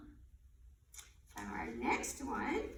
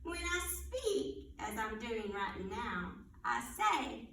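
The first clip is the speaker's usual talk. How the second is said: put-on riddle read aloud for little kids; reading to children; 3 semitones lower than usual. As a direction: read it like storytime. Reads animal riddles to children.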